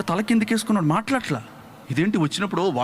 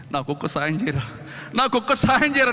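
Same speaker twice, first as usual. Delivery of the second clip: pleading through tears. Retold or imitated. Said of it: "అని ఏడుస్తున్నా".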